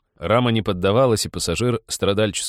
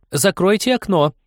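petulant, much higher, louder whine; capricious voice; 12 semitones higher, 5 dB louder than usual. A narrator's reading. Passenger inside the carriage whines at the man to shut the window, petulant. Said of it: "капризным голосом".

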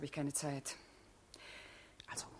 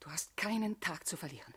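voiceless whispered warning; urgent whisper; 11 dB quieter than usual. Acted. Olga warning Hugo in secret, whispering. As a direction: hiss it so no one hears.

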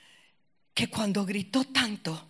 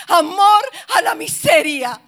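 loud, high, impassioned sermon voice; preaching at full force; 9 semitones higher, 9 dB louder than usual. Acted. Pastor urging the congregation, loud impassioned preaching. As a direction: drive it home to the congregation.

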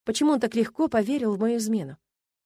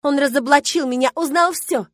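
high, loud outburst, climbing higher; angry shout; 7 semitones higher, 8 dB louder than usual. A narrator's reading. Milena confesses she was exposed, shouting. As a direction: cry it out frantically, rising to the end. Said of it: "закричала она".

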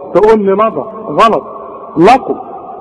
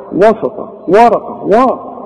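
mock wrong reading; 5 semitones higher than usual. Shown as a demonstration. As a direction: exaggerate the error, pushed up. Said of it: "كل ده غلط". (قراءة خاطئة مبالغ فيها بصوت أعلى)

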